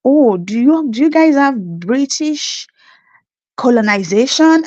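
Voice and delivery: lightly voiced Canadian asking about Nigeria; curious Canadian. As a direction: play the naive curious local.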